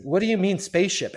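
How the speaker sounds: high, loud incredulous boss; baffled question. Retold or imitated. Boss reacting to the new guy's spaceship question, incredulous. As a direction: boss can't believe what he heard.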